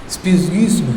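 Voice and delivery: psgisma, first p sounded, soft and careful; Greek pronunciation. Shown as a demonstration. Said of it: "Realmente no es gis".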